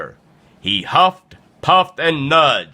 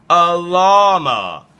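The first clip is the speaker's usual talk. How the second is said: drawn-out, higher announcement; slow, dramatic storybook reveal; 6 semitones higher, 4 dB louder, slower than usual. A narrator's reading. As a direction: stretch it out as a big reveal.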